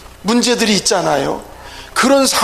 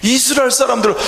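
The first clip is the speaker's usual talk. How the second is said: normal talking voice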